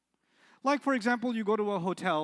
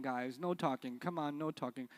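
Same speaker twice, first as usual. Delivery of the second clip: lower, softer "no talking"; soft, weak no talking; 5 semitones lower, 6 dB quieter than usual. Shown as a demonstration. Teacher showing the weak level of no. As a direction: say "no talking" gently, without force. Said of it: "different level".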